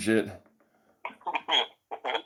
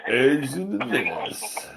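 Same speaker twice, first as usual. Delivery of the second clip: slow mock of uncle; 3 semitones higher, slower than usual. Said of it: "mocking the uncle again".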